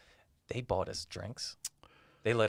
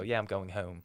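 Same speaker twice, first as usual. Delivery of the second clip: put-on South Jersey accent. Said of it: "picked out for where I live".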